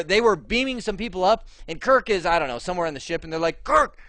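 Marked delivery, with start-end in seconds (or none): 3.6-4.0 high, loud mock Scottish accent; terrible Scotty accent. Crewman summoning the captain to the transporter room, terrible Scottish accent. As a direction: call out urgently in a bad Scottish accent. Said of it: "that was my terrible Scotty accent".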